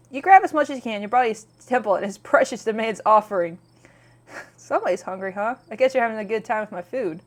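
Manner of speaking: lively storytelling read of the game text; narrating the scene to stream viewers; game text read aloud. Acted. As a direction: read it like narrating a visual novel. Reads the game's narration and lines.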